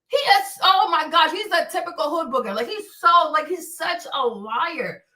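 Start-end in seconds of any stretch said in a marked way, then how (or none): none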